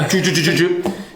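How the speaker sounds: quick run of little "doo-doo-doo" sounds; rapid mouth-made flicking noise; page-flipping noise. Retold or imitated. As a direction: imitate riffling through a thick book. Imitates leafing through thick book.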